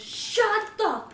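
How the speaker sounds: a moviegoer yelling at the crowd, loud and slow; retold yell. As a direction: bark it like an angry stranger. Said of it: "someone just yells".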